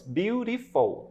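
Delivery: BEAUTIFUL drawn out slowly in three syllables. Shown as a demonstration. Teacher showing students it has three syllables, "Beautiful" said slowly. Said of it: "tem três sílabas".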